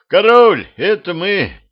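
called out high and loud. A narrator's reading. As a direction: call out to the king through the door. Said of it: "громко сказал он".

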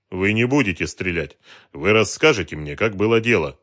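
soft calming. A narrator's reading. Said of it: "Он говорил мягко".

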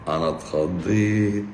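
slow, drawn-out playful fright on اتخضيت; mock fright. Doctor teasing a viewer about her entrance, with mock fright. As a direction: stretch اتخضيت out like a pretend scare.

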